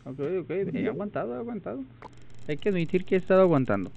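high, quick pleased boast; excited. Real, not acted. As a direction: rattle it off proud and fast. Excited after surviving.

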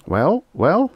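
high, insistent prodding; impatient. A narrator's reading. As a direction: press for the answer, voice climbing. Impatient ambassador presses for answer.

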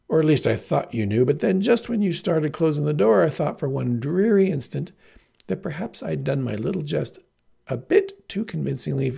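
affected, hammed-up graciousness; fanciest tone. Heroine explains away her joke to the farm boy, fancy and affected. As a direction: put on grand, fussy airs. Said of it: "said in her fanciest tone".

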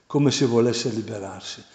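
normal talking voice

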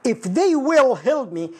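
slow, deliberate reading of the wrong sentence; slow wrong example. Shown as a demonstration. Teacher slowly reads a student's wrong sentence. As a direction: spell out the mistake slowly. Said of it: "من الأخطاء التي يكررها الكثير".

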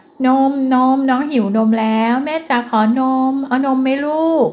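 นม said clearly and repeated, each นม leaned on; mother stresses นม so the child repeats it; stressed key words. Shown as a demonstration. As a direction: model the word นม for a toddler, punching each นม. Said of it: "นี่เป็นการเน้นคำให้นะคะ".

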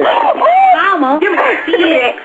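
shouting mama; yelled jokingly; loud playful yell. Real, not acted. Host yells playfully.

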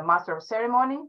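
normal talking voice

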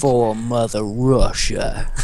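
slow mock Russian. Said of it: "I do terrible Russian accents".

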